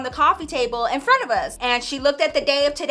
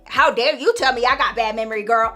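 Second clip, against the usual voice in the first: offended; 3 dB louder than usual. Retold or imitated. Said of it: "My grandma got so offended".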